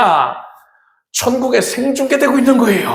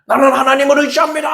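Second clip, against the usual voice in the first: mock prayer; 6 semitones higher, 3 dB louder, much faster than usual. Mimicking the empty prayer once more.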